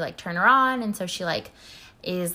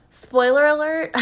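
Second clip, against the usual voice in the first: high, loud, drawn-out spoiler alert; playful warning; 8 semitones higher, 8 dB louder than usual. Acted. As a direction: sing it out as a teasing warning. Playful warning before plot reveal.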